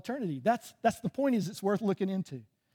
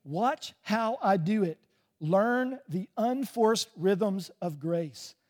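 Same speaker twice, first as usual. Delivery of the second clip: slow, gentle; much slower than usual. Acted. Gentle Jesus quote read slowly.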